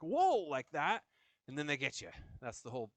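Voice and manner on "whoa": high, loud sudden whoa; mock startled whoa. Fencer thrown off balance, startled whoa. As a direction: caught off balance with nothing to push against. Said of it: "so you go like".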